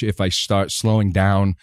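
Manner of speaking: slowed-down, halting film-star impression; Christopher Walken. Shown as a demonstration. Voice actor showing a voice near his own, slowed Walken impression. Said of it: "it becomes Christopher Walken".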